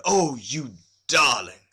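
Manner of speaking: a lightly voiced, slow delighted exclamation; mild delight. A narrator's reading. Husband admiring his bride, mildly delighted exclamation. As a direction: admire her, a touch smitten. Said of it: "he threw up his hands and said".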